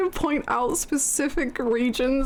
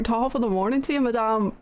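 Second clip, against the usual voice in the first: quick, lightly Irish greeting; Irish greeting to a lady; attempted Irish accent. Streamer practising an Irish accent. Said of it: "ir-, ir".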